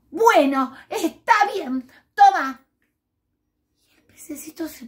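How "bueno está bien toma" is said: grudging give-in. Acted. Fish grudgingly gives a scale.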